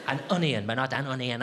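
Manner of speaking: over-articulate "an onion" word by word; robotically correct. Shown as a demonstration. Comic rejecting over-correct speech, robotic "an onion". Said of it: "I'm not a robot".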